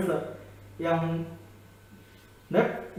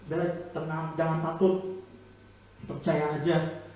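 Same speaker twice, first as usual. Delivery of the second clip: softer, gentle and calming; soft reassurance; 3 semitones lower, 6 dB quieter than usual. Acted. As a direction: hush him like a frightened father. Jesus calming Jairus.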